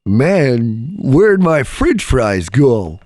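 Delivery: lightly acted baked stoner, drawn out; slow, bewildered pothead complaint; imagined stoner voice. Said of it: "he didn't talk like that".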